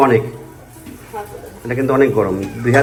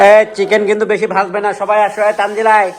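higher, raised call to come eat; calling family to eat; 7 semitones higher than usual. Real, not acted. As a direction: call everyone over.

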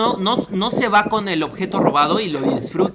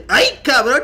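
high, loud awe between laughs; laughing, exaggerated wowed exclamation; mock impressed buddies; 7 semitones higher, 6 dB louder than usual. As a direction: imitate the thief's admiring pals, hammed-up. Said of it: "sus compas así bien orgullosos".

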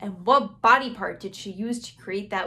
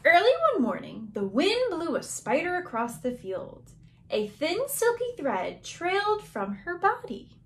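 lilting storybook reading, higher on key phrases; picture book narration; 5 semitones higher than usual. Acted. Teacher reading to young children, lilting storytelling. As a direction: read it to little children, savouring the words.

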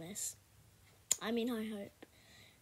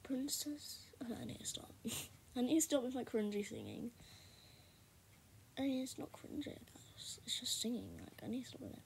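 whispered aside; 6 dB quieter than usual. Real, not acted. Whispering aside while playing.

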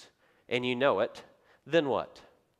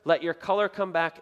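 higher, louder coaxing queen voice; the queen soothing a panicked king; reassuring queen; 6 semitones higher, 4 dB louder than usual. Retold or imitated. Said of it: "the queen comes in and goes".

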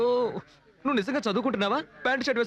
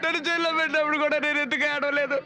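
crying complaint; 6 semitones higher than usual. Acted. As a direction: sob out the injustice. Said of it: "ఎందుకు ఏడుస్తున్నావు?". (ఏడుస్తూ ఫిర్యాదు)

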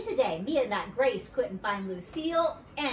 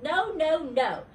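loud, higher-pitched string of protests; yelled refusal; 7 semitones higher, 4 dB louder, slower than usual. A narrator's reading. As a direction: protest loudly, each word punched. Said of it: "she yelled".

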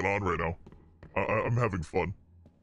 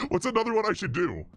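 demon voice changer; 5 semitones higher than usual. Real, not acted. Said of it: "same demon voice you use".

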